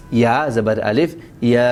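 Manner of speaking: یا drawn out even longer on the vowel; extra long madd. Shown as a demonstration. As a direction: stretch the یا well beyond its normal length. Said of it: "اور بھی تھوڑا زیادہ کھینچیں".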